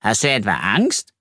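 mildly surprised question; understated astonishment; astonished. Acted. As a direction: ask it with a touch of amazement. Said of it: "fragt Ralf erstaunt".

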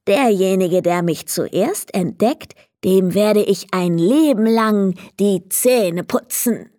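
lightly voiced little goblin, solemn promise; a small goblin making a lifelong vow. Goblin character speech. (feierlicher kleiner Kobold, leicht gespielt)

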